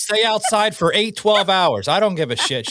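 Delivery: vicious Italian mother. Retold or imitated. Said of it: "raised by vicious Italians".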